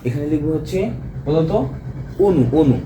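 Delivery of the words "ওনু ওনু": অনু starting on a rounded o; o-sound in অনু. Shown as a demonstration. Teacher models the word for students to write, অনু as "onu". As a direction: say অনু as "onu", closed first vowel. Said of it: "এটা আমরা কি লিখবো".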